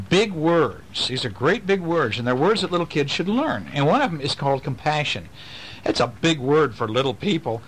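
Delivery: bright storybook read-aloud; reading to children. Acted. Dad reading a picture book to his kids, lively. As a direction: read it like a bedtime book to little ones.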